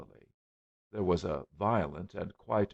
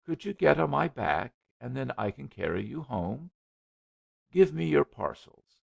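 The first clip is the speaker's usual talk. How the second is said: lightly voiced flustered suitor; higher, eager young man; 8 semitones higher, 6 dB louder than usual.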